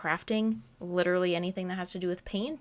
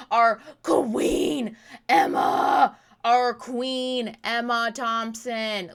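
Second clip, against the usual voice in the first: fangirl gushing; 8 dB louder, much slower than usual. Real, not acted. Fangirling over Emma Thompson.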